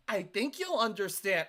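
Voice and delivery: mildly sly, drawn-out imitation. Mimicking a streamer's underhanded tone, mildly sly. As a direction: mimic a slyly condescending line, slowly. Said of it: "when I hear a tone like this".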